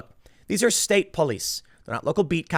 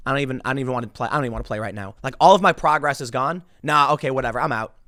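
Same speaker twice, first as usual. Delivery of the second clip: quick, lower, deflated grumble; mock defeated gamer; 4 semitones lower, faster than usual. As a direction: give up on the game in a huff. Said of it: "You're like".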